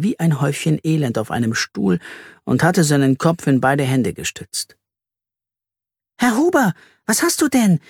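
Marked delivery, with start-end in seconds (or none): 6.2-7.8 worried. A narrator's reading. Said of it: "fragte Carla besorgt".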